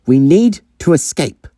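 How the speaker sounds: high, taken-aback quote of the other; incredulous echo. Acted. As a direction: repeat it back in acted astonishment. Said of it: "did you just say".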